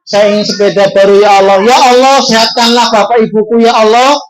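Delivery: lightly acted child's prayer; pleading prayer. Shown as a demonstration. Ustaz showing children how to ask Allah, mildly pleading. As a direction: model a simple plea to God. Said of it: "memohon kepada Allah".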